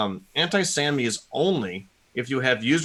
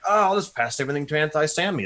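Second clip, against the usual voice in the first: higher-pitched imitation of a naive user; mock naive enthusiasm; 5 semitones higher than usual. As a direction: play the over-confident user, lightly mocking. Mocking naive overusers of a tool.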